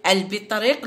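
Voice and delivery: البطريق with the L clearly sounded; article pronounced normally. Shown as a demonstration. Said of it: "راني ننطق في ال العادي".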